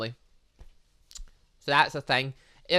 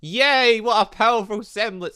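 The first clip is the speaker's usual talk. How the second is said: mock cheer; 7 semitones higher, 7 dB louder, slower than usual. Mock cheer at game line.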